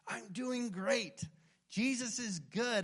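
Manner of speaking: high, slow put-on brightness; mock a too-sunny churchgoer; fake cheerful. Preacher mimicking a believer hiding struggles behind fake cheer. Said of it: "this image of yourself that everything's fine".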